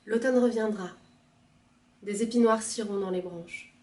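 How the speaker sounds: declaimed line by line, swelling then subsiding; poem reading. Acted. Reader announcing autumn's return, declaimed recitation. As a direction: recite each image separately, softening at the close.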